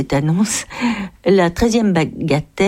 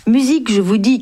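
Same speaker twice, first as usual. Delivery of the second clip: mild shout; 4 semitones higher, 3 dB louder, faster than usual. Acted. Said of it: "cria-t-il encore".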